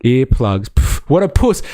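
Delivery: high mocking scoff; mocking gun guy. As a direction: scoff at the wimp, high and loud. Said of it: "That was his reaction".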